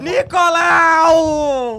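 long drawn-out delighted yell; excited shout. Real, not acted. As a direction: shout the name, thrilled. Recognising a friend's name.

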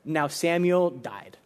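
slow, solemn quoted line; somber reading. Retold or imitated. Reading a devotion's first words to listeners, slow and somber. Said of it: "very first words I read".

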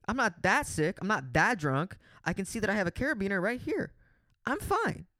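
high mock self-reassurance, insisting you are fine; drunk self-pep talk. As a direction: talk yourself sober in a high voice. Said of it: "and I went".

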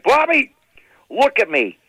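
father telling Bobby off, stretched final order; scolding father. Retold or imitated. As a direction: lay down the law, drag out knock it off. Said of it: "My father would be like".

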